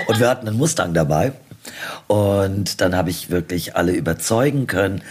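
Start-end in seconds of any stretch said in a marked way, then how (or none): 0.0-1.3 laughing through the words, quick. Real, not acted. Guest laughing as she tells the host about the Mustang. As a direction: giggle as you deliver the punchline.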